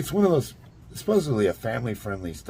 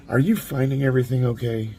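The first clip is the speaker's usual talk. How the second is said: curt, higher pitched, cross question; cross store owner; 6 semitones higher, 4 dB louder than usual. Retold or imitated. Store owner checking on a customer he dislikes, cross and curt. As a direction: clip it like a suspicious shopkeeper. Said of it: "he said it just like that".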